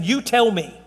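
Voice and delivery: "You tell me" as a pointed challenge; firm demand, "You tell me"; emphatic. Retold or imitated. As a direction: lean on "You" and finish "tell me" falling. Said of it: "that is emphatic".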